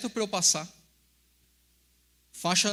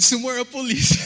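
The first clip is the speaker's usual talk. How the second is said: laughing panic; 5 semitones higher, 10 dB louder than usual. Retold or imitated. Panicked warning in a retold scene.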